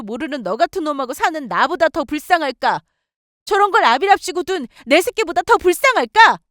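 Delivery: shrieking high and climbing with rage; furious yelling. Acted. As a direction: scream it at him in bitter outrage. Wife yelling at husband. (남편에게 분노를 터뜨리는 아내, 높이 치솟는 고함)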